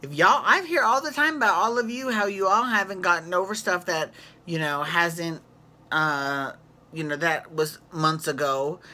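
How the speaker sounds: mock-whiny Tinsley defending herself; a hint of Tinsley at the table; imitating Tinsley. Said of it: "She's like".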